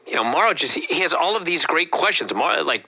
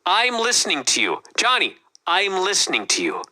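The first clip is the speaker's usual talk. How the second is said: calm coaxing. Retold or imitated. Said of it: "talk this guy off the ledge calmly".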